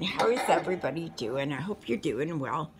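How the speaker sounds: winded after shoveling snow; out of breath. Real, not acted. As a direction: talk while catching your breath. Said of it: "I'm a little out of breath".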